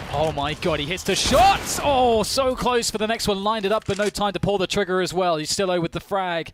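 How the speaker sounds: loud, high hype call; esports caster. Real, not acted. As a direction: scream the clutch shots. Caster calling a clutch.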